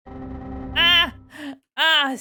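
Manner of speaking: sharp startled yelp; startled scream. Real, not acted. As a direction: jump and yelp in fright. Startled by sudden robot voice.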